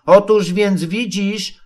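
slow, high, groping start; string out the opener, unsure what follows; hesitant explaining. A narrator's reading. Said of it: "nie tłumaczy się dość jasno".

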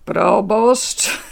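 sneering, rising disbelief; mocking question. A narrator's reading. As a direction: scoff at the title. Officer mocks the title.

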